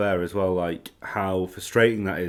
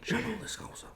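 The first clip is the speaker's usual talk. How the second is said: mock Scouse; 14 semitones higher, 10 dB quieter than usual. Shown as a demonstration. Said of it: "the pressure's on".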